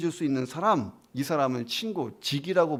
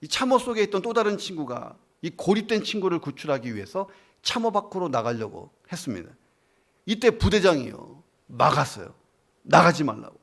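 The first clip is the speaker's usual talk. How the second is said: usual speaking voice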